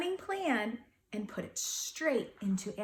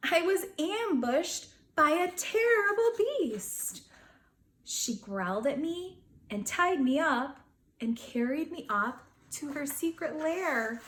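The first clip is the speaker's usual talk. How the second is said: indignant beast storytelling; hammed-up grumpy narration; story narration. A narrator's reading. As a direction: tell it like an outraged little beast. Beast narrates part two.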